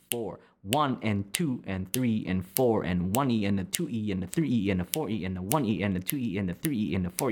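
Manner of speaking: spoken rhythm count. Shown as a demonstration. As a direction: say the beat aloud in time. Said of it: "say the rhythm sounds".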